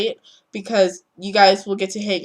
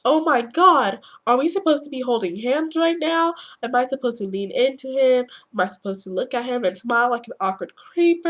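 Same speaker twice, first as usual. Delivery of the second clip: anxious inner voice; 4 semitones higher than usual. Pretend. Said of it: "or you could be like".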